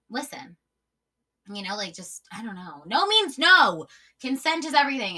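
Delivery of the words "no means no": loud, slow, high "No means no"; emphatic. Real, not acted. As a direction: hammer each word of "No means no". Making an emphatic point about consent.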